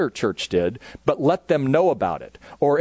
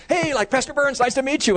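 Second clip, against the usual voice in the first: much higher, loose, casual dad voice; laid-back dad; 14 semitones higher than usual. Retold or imitated. Dad Dan strolls in to greet the pastor, much higher and casual. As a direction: toss off a lazy friendly greeting.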